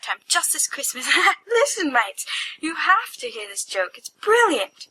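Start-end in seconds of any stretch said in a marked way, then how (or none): 1.5-4.9 high, giggly and breaking up; barely holding the laughter in; laughing too hard to tell the joke; giggling excitedly. Acted.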